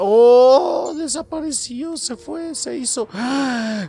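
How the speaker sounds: high startled gasping words; shocked. Real, not acted. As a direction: react in disbelief. El niño desaparece de pronto. (sorpresa aguda)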